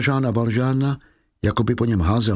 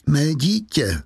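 anguished cry; 3 semitones higher, slower than usual. Acted.

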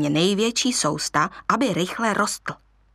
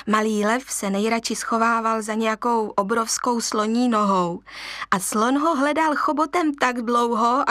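ordinary delivery, nothing marked

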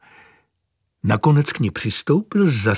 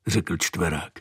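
usual speaking voice

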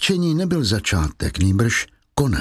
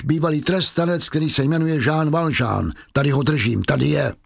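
triumphant inspector. Acted. Inspector Javert unmasks the mayor as a convict, rising triumph. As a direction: announce the convict's name in triumph.

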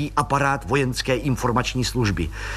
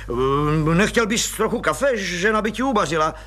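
forced friendliness; 7 semitones higher than usual. Acted. Colonel forces hospitality.

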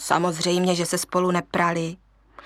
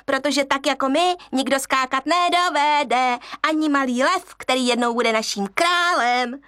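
boasting monkeys; 5 semitones higher than usual. Acted. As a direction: brag about your jumping.

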